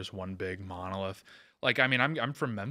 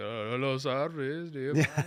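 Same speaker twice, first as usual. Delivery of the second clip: put-on Dallas accent, higher; 6 semitones higher, 4 dB louder than usual. Showing the Dallas accent: imitating a Dallas accent. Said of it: "I do like the Dallas accent".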